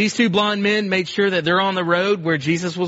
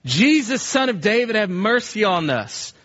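crying out; 3 semitones higher than usual. Retold or imitated. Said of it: "They cried out".

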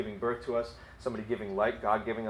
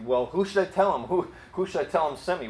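higher-pitched Moses stalling with questions; mock objecting; 5 semitones higher than usual. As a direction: press the question, playing a doubtful objector. Acts out Moses questioning God.

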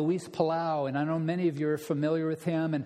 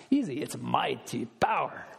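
put-on lower, deadpan reply in an Argentine accent; 4 semitones lower than usual. Professor answering his wife, light Argentine accent. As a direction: answer back smugly in Palau's Argentine accent. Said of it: "with that Argentine accent".

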